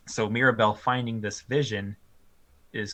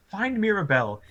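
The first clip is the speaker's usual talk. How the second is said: sharp, higher angry command; 10 semitones higher, 5 dB louder than usual. Retold or imitated. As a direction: bark the order at the family. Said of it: "Abuela is naturally pissed".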